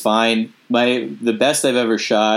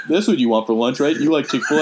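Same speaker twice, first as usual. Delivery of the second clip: lightly voiced dad, through a laugh; half-laughing dad impression; 4 semitones higher than usual. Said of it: "When you do your dad voice".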